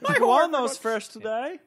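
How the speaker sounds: high, loud and slow with laughter; frog puppet voice. Pretend. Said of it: "Kermit the Frog".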